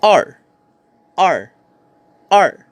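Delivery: R said as "ar", short and falling sharply; "r" as a quick falling-tone syllable; Mandarin pronunciation. Shown as a demonstration. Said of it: "we have number two".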